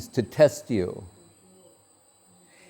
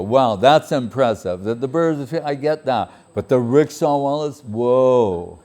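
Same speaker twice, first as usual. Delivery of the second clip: playfully impressed, a touch louder; mock amazement; 3 dB louder than usual. Listener teasing the guru, mock amazed. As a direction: gush in fake wonder at the list.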